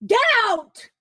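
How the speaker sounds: loud, high mock yell; retold yell. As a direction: bark it at the door. Brother yells at kids in story.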